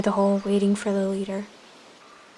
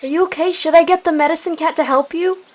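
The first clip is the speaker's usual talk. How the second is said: higher-pitched worried questions; anxious concern; 7 semitones higher, 4 dB louder, faster than usual. Acted. She-cat offering to fetch help, anxiously high. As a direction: ask with mild alarm. Alarmed cat checks on leader.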